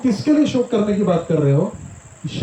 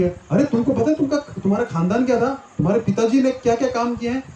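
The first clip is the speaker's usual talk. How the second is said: higher pitched, lightly challenging; reminding of family pride; 5 semitones higher than usual. Retold or imitated. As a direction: needle him about his father's deeds. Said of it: "या किसी को बोलते हैं कि".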